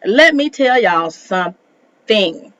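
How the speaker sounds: slow, word-by-word emphasis; slow emphatic warning. Real, not acted. Host about to set viewers straight, slowly and deliberately. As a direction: stretch it out, pausing before the end.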